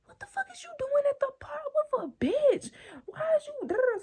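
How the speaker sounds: whispered furious question; angry whisper. Retold or imitated. To boyfriend beside the bench, an angry whisper. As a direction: hiss it so the girls won't hear.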